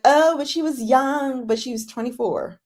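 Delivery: mock excuse-making. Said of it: "you wanna be like".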